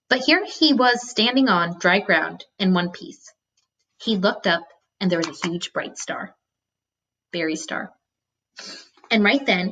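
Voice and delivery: steady read-aloud narration; story narration. A narrator's reading. Teacher reading a novel to students, storytelling voice. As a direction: read the chapter aloud to the class.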